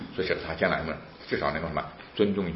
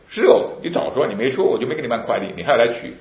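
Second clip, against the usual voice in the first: officer's retold scolding; 5 semitones higher, 6 dB louder than usual.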